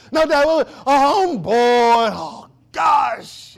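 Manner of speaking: high, loud hammed-up child's whine; whining kid. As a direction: act out a bored kid protesting to dad. Kids whine at dad.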